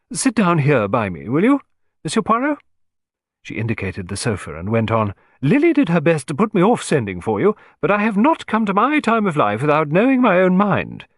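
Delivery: a bossy, decisive lady of the house; forthright lady. Acted.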